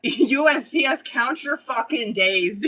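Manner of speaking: mock threat through a laugh; drawn-out laughing warning. Real, not acted. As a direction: warn the post office, half laughing. Angry rant at the post office.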